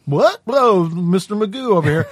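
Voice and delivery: high, loud bumbling sheriff; loud, dim-witted high voice; dumb sheriff. Acted. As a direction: put on a befuddled cartoonish lawman. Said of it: "the guy that's just sort of like".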